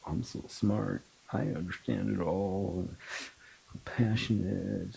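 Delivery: mocking my old self. Mocking her former self to the host, lightly smug. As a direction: poke fun at your old know-it-all self. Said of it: "I did that for so long".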